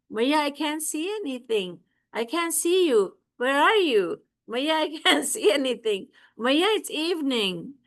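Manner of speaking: put-on child voice. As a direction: play a small child insisting it's dark. Child Krishna covers his eyes.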